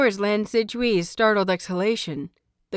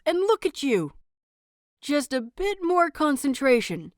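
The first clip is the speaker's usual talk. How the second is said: higher, brighter-pitched eager praise; cheerful encouraging teacher; 4 semitones higher than usual. Acted. Wei Wuxian praising young Lan Xin, excited and encouraging. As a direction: cheer the shy student on like a delighted teacher.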